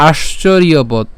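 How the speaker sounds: আশ্চর্যবৎ as "aash-chor-iyo-bot"; Sanskrit pronunciation. Shown as a demonstration. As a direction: join bot onto আশ্চর্যবৎ, iyo kept clear. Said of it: "এরপর হচ্ছে বৎ". (আশ্চর্যবৎ, "ইয়" স্পষ্ট রেখে)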